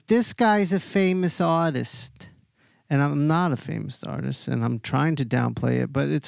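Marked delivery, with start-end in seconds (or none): 0.0-2.3 lightly voiced lady, higher and slow; a hint of the bar lady showing him off, drawn out; announcing bar lady.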